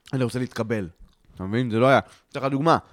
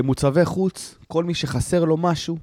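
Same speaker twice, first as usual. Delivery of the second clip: army radio call; 4 semitones higher than usual. Retold or imitated. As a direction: imitate a dispatcher addressing every outpost. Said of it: "עולה קריאה בקשר".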